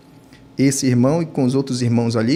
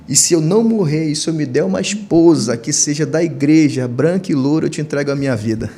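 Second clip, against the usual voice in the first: raised-voice bargaining plea, easing down; retold loud cry; 3 semitones higher, 4 dB louder than usual. Man bargaining with God for his life, retold cry easing off. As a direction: re-enact an urgent vow, gradually settling. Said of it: "eu gritei bem alto".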